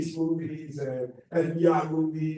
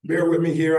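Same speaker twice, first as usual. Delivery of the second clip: slightly hoarse, raspy coach's voice; 6 dB louder than usual. Real, not acted. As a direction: speak through a worn, raspy throat. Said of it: "I got a coaching little raspy voice".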